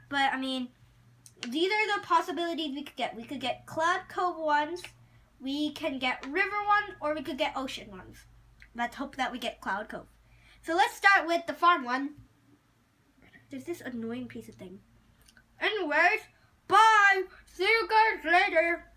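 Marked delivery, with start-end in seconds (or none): 3.2-14.8 talking while chewing gum; words round a wad of gum. Real, not acted. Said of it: "I'm chewing gum right now". 15.6-18.9 cheery goodbye. Real, not acted. Cheerful sign-off.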